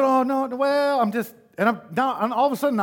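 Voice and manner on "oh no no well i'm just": high, loud, backpedaling protest; mock-flustered scramble to explain yourself; flustered self-justifying. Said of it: "explaining myself to a six-year-old".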